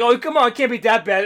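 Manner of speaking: mock exasperated calling out; impatient calling. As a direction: call through a door, half in earnest. Guy calling through stall door.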